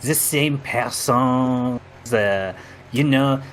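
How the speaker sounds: mock-dramatic reveal in a hammed-up French accent; a sly French-accented confession; host reveals he is from another universe, in mock French; fake French accent. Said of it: "outrageous French accent".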